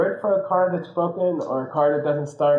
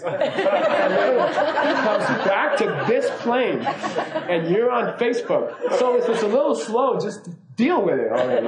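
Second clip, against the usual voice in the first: higher, laughing through an incredulous rant; exasperated rant; 3 semitones higher than usual. Retold or imitated. Comedian telling off the passenger complaining about wifi, laughing rant. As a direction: imitate a comedian scolding an ungrateful passenger, half laughing. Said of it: "I, I don't do it very well".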